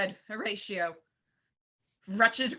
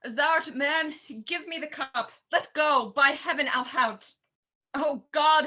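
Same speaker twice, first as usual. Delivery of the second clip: raised, straining voice, grabbing; urgent struggle; 3 semitones higher, 4 dB louder than usual. Acted. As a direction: fight for the cup, louder. Wrestles cup from Horatio.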